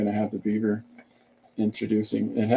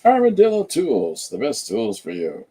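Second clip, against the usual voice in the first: ad slogan; 4 dB louder than usual. Acted. Crafter reading out the back of the zine, ad voice. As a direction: belt out a product tagline, then settle. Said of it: "type of an ad".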